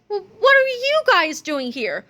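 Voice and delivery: high, stammering astonishment; cried out. A narrator's reading. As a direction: stumble on the first word in surprise. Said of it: "cried old George".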